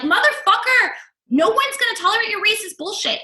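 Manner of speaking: quoting her own furious yell; retold yelling. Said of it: "I flip out on the guy".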